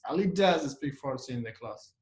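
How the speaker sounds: DOES stressed, sentence falling away after. Shown as a demonstration. Teacher showing an emphatic sentence, stress on DOES. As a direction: put the weight on does. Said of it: "Emphatic sentence".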